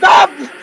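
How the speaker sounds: sudden loud, high scream; real yelp of fright; startled scream. Real, not acted. Player jump-scared by the game, startled scream.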